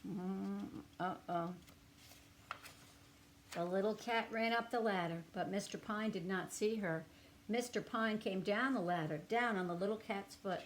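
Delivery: gentle, expressive storybook reading; reading to children. A narrator's reading. Reading a picture book aloud to young children, storybook voice. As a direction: read it to little listeners with feeling.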